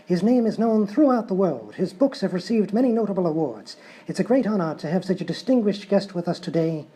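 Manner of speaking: lightly voiced English host welcoming viewers; a touch of a posh English presenter; English talk show host. Host opening the English talk show, lightly English. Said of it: "typical English talk show".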